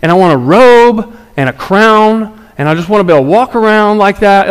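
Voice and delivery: whiny asking voice, slowing on the robe and crown; hammed-up plea to heaven; pleading prayer. Voicing a praying believer.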